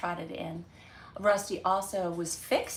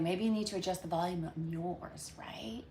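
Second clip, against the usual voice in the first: whisper; 6 dB quieter than usual. Real, not acted. Jokey whisper after feeling shouty.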